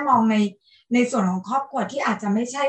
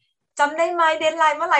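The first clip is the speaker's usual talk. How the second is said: lightly voiced Thai mum, higher and slower; a mild imitation of a mother chasing a deadline, pitched up and drawn out; คุณแม่ไทยคอยเตือน; 4 semitones higher, much slower than usual. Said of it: "เหมือนคุณแม่ไทยๆนิดนึง". (เลียนเสียงคุณแม่ไทยคอยทวงเบาๆ เสียงสูงขึ้น ลากช้า)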